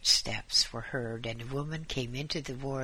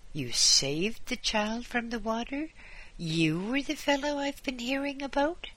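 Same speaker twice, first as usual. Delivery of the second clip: london policeman; 10 semitones higher than usual. A narrator's reading. Policeman surprised by news.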